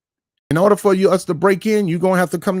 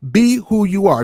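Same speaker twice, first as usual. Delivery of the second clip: loud, emphatic plea; louder, insisting; loud demand to be genuine; 3 semitones higher, 4 dB louder than usual. Real, not acted.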